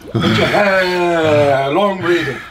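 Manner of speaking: slow, drawn-out breathing instruction; slow breathing cue. Shown as a demonstration. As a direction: stretch every word out slowly. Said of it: "guiding breathing in ice".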